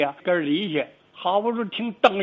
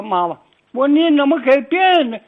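higher and louder protesting call to mother; retold outcry; 7 semitones higher, 8 dB louder than usual. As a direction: cry out to mom, half reliving it.

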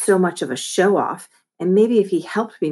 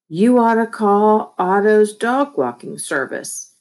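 slow, louder flyer read-out; reading aloud; 5 semitones higher, 5 dB louder than usual. A narrator's reading. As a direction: read it out like a slogan.

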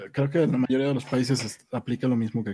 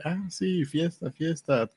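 mock party DJ; 4 semitones higher than usual. Mocking a DJ on stage.

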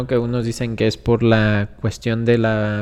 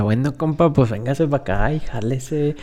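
mock northern Mexican accent. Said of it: "empecé a hablar como norteño".

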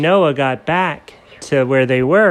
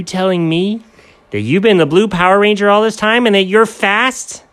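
amazed Doug; 8 semitones higher, 4 dB louder than usual. Acted.

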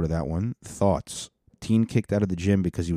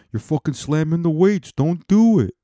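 louder, higher mock yell; retold angry yell; 7 semitones higher, 6 dB louder than usual. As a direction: imitate an angry gym-goer yelling. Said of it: "I guess the guy's yelling".

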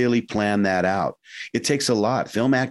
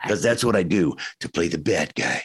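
lower, slower menacing voice; bad guy voice; 3 semitones lower than usual. Shown as a demonstration. Actor demonstrating his low, slow bad-guy voice. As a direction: drop into the villain voice, low and slow. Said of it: "a little deeper and a little slower".

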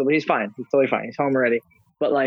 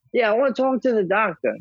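dad voice; 7 semitones higher than usual. Retold or imitated. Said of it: "my dad's like".

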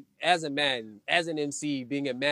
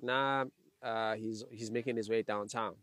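trying not to laugh; 6 semitones lower, 9 dB quieter, slower than usual. Real, not acted.

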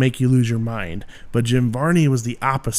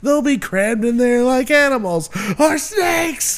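higher, slow hick drawl; Ernest voice; 6 semitones higher than usual. Retold or imitated. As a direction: stretch it out like goofy Ernest. Ernest quote bit.

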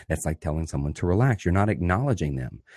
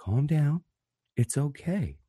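mock soothing; 7 semitones higher, 5 dB quieter, slower than usual. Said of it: "by going".

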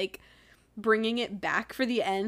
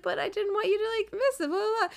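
much higher mimicking voice; mock pleading protest; 10 semitones higher, faster than usual. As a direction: imitate his protest, trailing into dismissive filler. Mock retelling of his protest.

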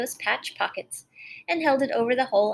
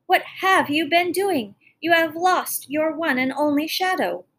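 stern queen; 6 semitones higher, 5 dB louder than usual. Acted. Stern queen scolds prince.

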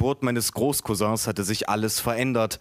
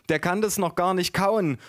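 high-pitched cousin objecting; storyteller's high cousin voice; 7 semitones higher than usual. A narrator's reading. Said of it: "sagte meine Cousine".

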